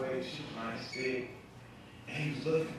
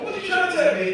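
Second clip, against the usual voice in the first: loud, higher mock yelling at uncle; incredulous shout; 11 semitones higher, 9 dB louder than usual. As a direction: shout at him in disbelief. Comic yells at uncle.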